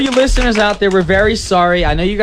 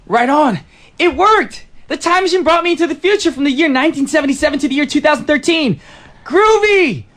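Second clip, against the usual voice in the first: retro seventies guy; 3 semitones higher than usual. Acted. Time traveller from 1977 hits the disco, lightly voiced groovy dude. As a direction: play a jive time traveller from 1977 at first. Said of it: "that was the character I was going for".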